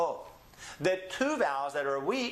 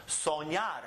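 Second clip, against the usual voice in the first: "Soñar" with the weight on "ñar"; teacher models "Soñar", stressing its last syllable. Shown as a demonstration. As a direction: lean on the final "ñar" of "Soñar". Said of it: "so it's the last syllable".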